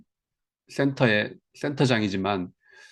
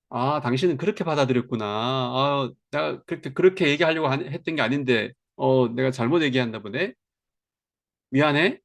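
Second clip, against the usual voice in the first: gentle apology. Shown as a demonstration. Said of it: "얘기를 해야 되는 거예요".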